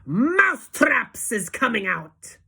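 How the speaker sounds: slow, drawn-out witch shout; loud triumphant shout. Acted. Grand High Witch reveals her plan, slow triumphant shout. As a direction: announce it like a triumph. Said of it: "raised her voice louder than ever and shouted".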